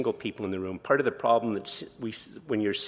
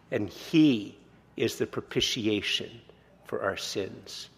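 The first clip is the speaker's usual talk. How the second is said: solemn slow scripture reading; slower than usual. Acted. Preacher reads Paul to congregation, slow solemn proclamation. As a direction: lift each phrase slowly like a holy text.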